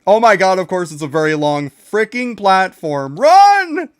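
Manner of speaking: high loud panicked yells; frantic yelling. Real, not acted. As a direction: scream encouragement while fleeing. Frantic escape on long platform.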